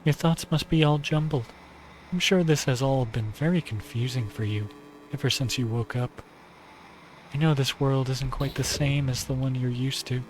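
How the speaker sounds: lightly voiced gentle yandere girl; Nagi voice.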